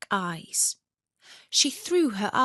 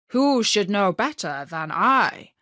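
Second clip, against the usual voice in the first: proud reindeer; 5 dB louder than usual. Acted. Reindeer boasts.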